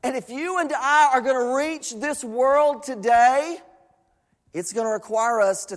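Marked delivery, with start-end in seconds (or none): 0.0-3.6 emphatic preaching. Acted. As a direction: preach it as a rousing challenge.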